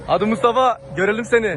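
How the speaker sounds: cheering. Real, not acted. Cheering friend on from below.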